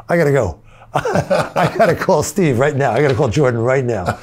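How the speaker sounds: overwhelmed with joy, nearly crying; laughing and crying. Retold or imitated. Telling a friend on the phone he must call Jordan, laughing and almost crying. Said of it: "almost crying together, laughing and crying".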